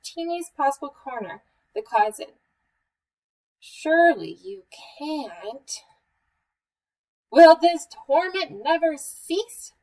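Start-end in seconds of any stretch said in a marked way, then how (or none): 3.6-5.8 slow, squeezed little mouse voice; tiniest possible voice. A narrator's reading. Mouse testing Bear from the closet, tiniest voice. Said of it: "said in the tiniest possible voice". 7.3-9.7 high, loud, slow wail. A narrator's reading. Bear tormented by Mouse's noise, wailing. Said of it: "wailed Bear".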